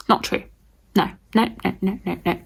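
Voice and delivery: ordinary talk, nothing marked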